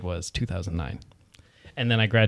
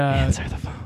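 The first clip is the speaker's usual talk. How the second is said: store PA page; firm PA request; intercom voice; 2 semitones higher, 3 dB quieter than usual. Shown as a demonstration. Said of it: "my intercom voice".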